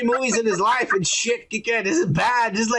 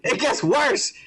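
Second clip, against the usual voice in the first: slow words through real laughter; laughing; slower than usual. Real, not acted. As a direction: laugh it out, slowly. Laughing at bad show writing.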